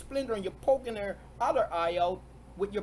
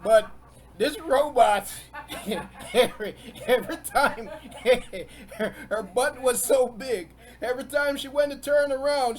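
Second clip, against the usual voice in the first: laughing while telling; 2 semitones higher, 6 dB louder than usual. Real, not acted. Laughing while telling robot story.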